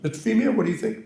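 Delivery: put-on high, swallowed English accent; Berlin imitation. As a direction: mimic a mumbling Oxford don. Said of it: "I'll try to".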